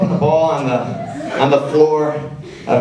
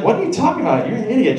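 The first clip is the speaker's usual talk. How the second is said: mom scolding; 8 semitones higher, much faster than usual. Retold or imitated. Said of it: "She's like".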